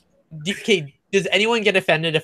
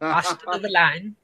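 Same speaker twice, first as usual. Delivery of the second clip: put-on copied Manchester accent.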